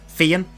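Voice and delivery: Fiyin tried out, lifted at the end; practising pronunciation. Shown as a demonstration. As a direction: rehearse Fiyin with a slight rise. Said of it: "I'll try and learn that".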